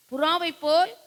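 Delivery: high, loud wailing lament; acted lament. Pastor practically acts out the verse, wailing high. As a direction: wail as the dying king. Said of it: "பிராக்டிக்கலா பாருங்களேன்".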